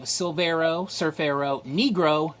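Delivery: lightly hammed mock-Spanish title. Collector repeating the comic's title for viewers, mock Spanish. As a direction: roll out the title in pretend Spanish. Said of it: "that is how they say it".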